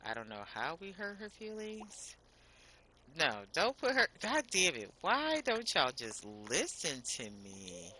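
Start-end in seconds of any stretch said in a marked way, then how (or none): 3.2-7.9 loud, annoyed scolding at the game; exasperated loud complaint; frustrated yelling. Real, not acted. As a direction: snap at the game for not listening. Game ignores her commands.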